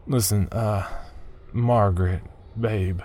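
words pushed through clenched teeth; tense, teeth clenched, holding back. Acted. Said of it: "I said through clenched teeth".

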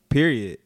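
"period" as "peeriot", one word; clipped final T. Shown as a demonstration. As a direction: say "period" with the T closing it, no "tee". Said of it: "You don't say the T".

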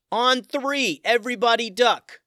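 high, loud command; yelled. Acted. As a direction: bark the plan over the running. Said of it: "Tim yelled out".

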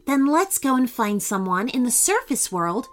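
gentle, encouraging suggestion; gently. Acted. Mermaid suggesting they find help, gently. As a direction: coax a friend towards help. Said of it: "said Emma gently".

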